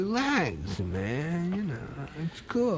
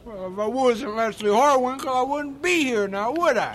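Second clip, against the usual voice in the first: gruff defendant voice; 3 semitones higher than usual. Acted. Surly defendant voice.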